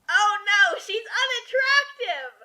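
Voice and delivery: mock shock. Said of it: "mock outrage".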